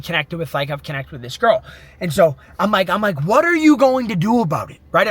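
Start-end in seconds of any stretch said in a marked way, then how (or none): 3.2-4.8 mildly raised voice, imitating screaming at himself; retold yelling. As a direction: re-enact freaking out, only partly full force. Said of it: "I'm screaming. I'm freaking out. I'm yelling".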